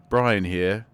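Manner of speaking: flat robot voice, no emotion; deadpan synthetic robot read. Pretend. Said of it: "I could just say it in a robot voice".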